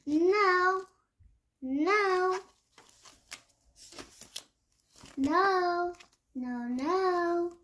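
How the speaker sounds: put-on high stubborn kid yelling no; defiant child shouting. Child keeps refusing bedtime.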